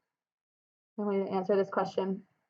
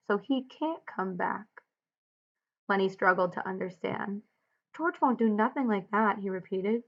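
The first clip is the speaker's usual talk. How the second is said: steady read-aloud of the novel; story narration. A narrator's reading. Teacher reading the novel aloud to class, steady narration.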